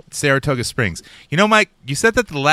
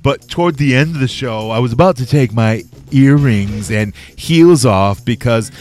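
a hint of a sassy woman, louder; man lightly doing a woman's voice; Lulu voice; 4 dB louder than usual. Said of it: "That's just me doing, uh, your girl Lulu's voice".

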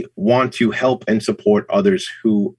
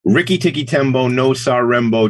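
reciting name; 2 semitones higher than usual. Shown as a demonstration. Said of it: "you know the book".

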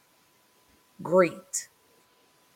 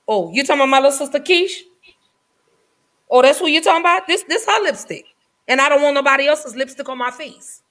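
mock proud boast; 4 semitones higher, faster than usual. Acting out her own future boast.

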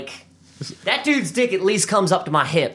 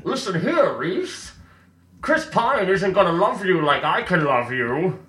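lightly voiced pretend movie seducer; mock romantic lead; 2 semitones higher than usual. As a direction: play the cheesy lover wooing Reese. Mocking Tom Hardy's rom-com character.

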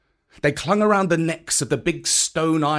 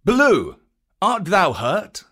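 python Kaa asking; 7 semitones higher, 5 dB louder than usual. A narrator's reading. Kaa calling out to Baloo after the battle.

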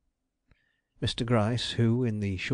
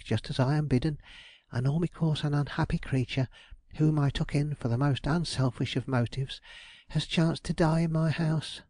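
a hint of a put-upon woman, pitched up; a fretful widow lightly voiced, higher; lightly voiced aggrieved landlady; 5 semitones higher than usual. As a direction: complain as a flustered landlady. Belden's complaint voiced by reader.

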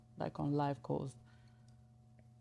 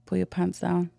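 teasing, commanding, a bit louder; sultry phone sex voice; 2 semitones higher, 6 dB louder than usual. Shown as a demonstration. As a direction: play the dominant caller. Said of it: "get in full character".

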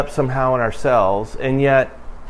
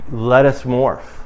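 first take; slower than usual. Shown as a demonstration. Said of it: "Let me try it again".

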